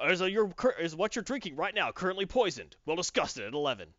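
a touch of late-night news anchor; news teaser voice. Shown as a demonstration. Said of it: "when the news would do that".

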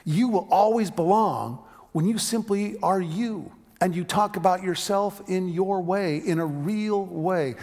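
preacher driving the line home to the congregation; emphatic retelling. Shown as a demonstration. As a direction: lift it up and proclaim it. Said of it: "do you hear the simple beauty".

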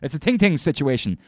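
emphatic no. Real, not acted. Host insists on getting names right, emphatically. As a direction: push back hard, with repeated nos. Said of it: "host says a name matters".

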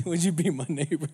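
gently sing-song like the TV host; Mister Rogers. Retold or imitated. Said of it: "dressed like, um, Mister Rogers".

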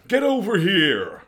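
slow, loud, high battle cry; Scorpion voice. Retold or imitated. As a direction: drag it out like a fighting game ninja. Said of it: "best Scorpion impression".

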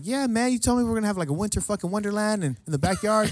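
high-pitched, eager persuasion; mock insistent reminder. Host convincing buddy he promised party, mock insistent.

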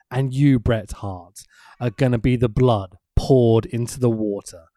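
slow, intense wrestling manager promo; Cornette promo. Retold or imitated. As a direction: deliver it slow like a heel manager. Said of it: "Cornette says".

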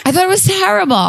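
laughing. Real, not acted. Admitting she hated the movie.

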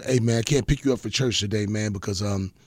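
low, soft, apologetic friend on the phone; imitating the barber friend. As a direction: mumble it low like you're cancelling. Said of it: "He goes".

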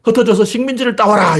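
high, sweeping mock decree; acted royal order; king's command. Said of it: "이렇게 명령을 못 내린다고".

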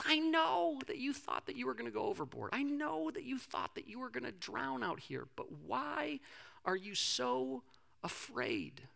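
high, soft, imploring voice; acted pleading. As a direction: plead tenderly, slowing on the final question. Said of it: "he's pleading with them".

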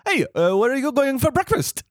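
high-pitched mock French accent; imitated French guy. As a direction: chirp it like an oblivious Frenchman.

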